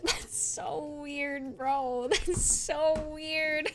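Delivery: drawn-out, laughing words; laughing disbelief. Real, not acted. Streamer to chat about something so weird, laughing disbelief. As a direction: stretch it out through giggles.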